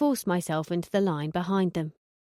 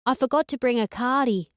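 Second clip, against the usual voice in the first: put-on lightly raised girly twang; a hint of ditzy Hillary; 4 semitones higher than usual. Narrator as Hillary to the lads, mild girly twang. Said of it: "in my Hillary twang".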